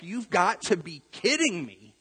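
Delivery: mildly indignant, stretched-out protest; mock angry disbelief. The mad brother reacting to the party, mildly indignant. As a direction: put some annoyed emphasis into it. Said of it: "He is mad".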